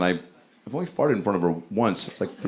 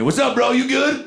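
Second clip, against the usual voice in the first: high, chummy greeting; breezy high-pitched hello from afar; overly cordial; 11 semitones higher than usual. Retold or imitated. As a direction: imitate a too-friendly stranger. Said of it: "way too cordial for this time of night".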